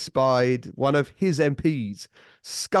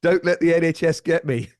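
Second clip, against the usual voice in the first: higher, louder imitation of a battle cry; comic retold war cry, pitched up; mock battle yell; 6 semitones higher, 5 dB louder than usual. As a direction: yell it like an old man charging, hammed-up. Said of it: "chasing the villain down the street yelling".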